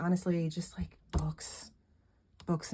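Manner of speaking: soft hushed whisper; whispered aside. Retold or imitated. Telling boyfriend her wish list: hushed whisper. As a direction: murmur it like a shy confession. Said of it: "and I'm like".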